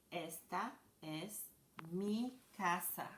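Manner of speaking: slow, clear teacher demo of Esta es mi casa; slow model sentence. Shown as a demonstration. Teacher modeling a Spanish sentence for kids, slow and clear. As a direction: say each word slowly for the class. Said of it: "we say".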